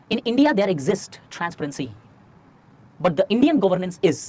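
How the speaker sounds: very slow, word-by-word delivery; slow dictation. Shown as a demonstration. Teacher dictating a key line for students to copy, slowly. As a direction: say it slowly so they can write every word. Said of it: "धीरे-धीरे बोल रहा हूं".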